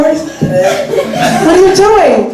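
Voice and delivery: mock shock. Host startled by audience member.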